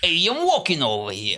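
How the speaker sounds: mock Italian-American mafia type; Italian-American accent. Host teased as mafia plays along, Italian-American accent. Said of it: "you sound like you could be Italian American".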